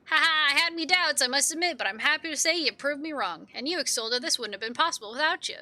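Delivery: jovial character voice; hearty game ally. Acted. Ally admitting doubts were proved wrong, hearty. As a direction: open on a hearty laugh, then concede.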